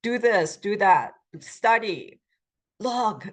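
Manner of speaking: short orders, each falling at the end; bossy. Shown as a demonstration. Teacher illustrates the command form, bossy orders. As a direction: boss someone about. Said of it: "this sounds very bossy, like".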